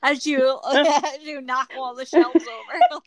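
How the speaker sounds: words broken by laughter; laughing. Real, not acted. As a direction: laugh while you say it. Laughing through a joking scenario.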